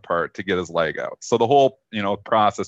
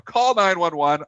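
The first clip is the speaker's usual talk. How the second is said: higher, slower, pressing demand; injured friend repeating his demand to call for help, pitched up; insistent plea; 8 semitones higher, slower than usual. Retold or imitated. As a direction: insist on nine one one, pitched up in alarm. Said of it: "He's like".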